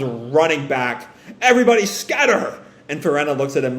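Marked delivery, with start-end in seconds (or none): 1.4-2.6 acted warning cry, pitched high; urgent warning. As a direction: call out an alarm to the crew. Character shouts warning of attack.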